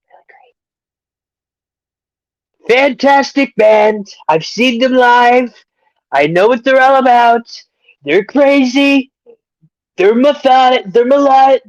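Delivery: lightly voiced fake hype announcer; put-on voice. Hamming up a put-on voice to plug a band. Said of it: "I can't even do this voice anymore".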